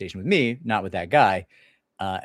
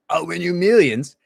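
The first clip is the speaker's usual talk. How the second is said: high, loud, slow showman's boast; grand huckster promise; boastful promise; 8 semitones higher, 7 dB louder than usual. Retold or imitated. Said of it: "some jackass who said".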